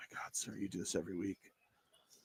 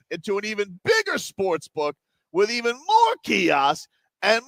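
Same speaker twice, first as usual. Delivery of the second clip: hyped event promo; promo read. Acted. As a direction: pitch the event with energy.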